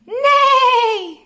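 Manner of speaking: high, loud whinny with a laugh; horse neigh. Pretend. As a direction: neigh like a playful horse for the kids. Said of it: "which sound a horse makes".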